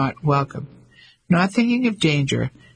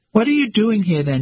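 demanding; 6 semitones higher than usual. A narrator's reading. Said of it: "she demanded".

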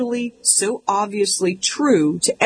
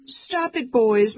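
much higher, a light mock plea; pleading mom; 5 semitones higher, slower than usual. Mom begging her sons to stop, high mock pleading. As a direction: plead with the boys like a worried mom. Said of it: "my mom pleads".

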